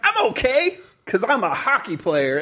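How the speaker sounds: put-on high little girl voice; proud little girl, brushing it off. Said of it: "Or she's like".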